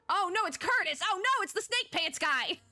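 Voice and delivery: high, dragged-out groan of dismay; mock dread. Real, not acted. Dreads the returning character.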